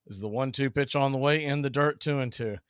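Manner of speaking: steady play-by-play announcer read; play-by-play call. Acted. Announcer calling the count to the stream. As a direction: call the pitches like a broadcaster.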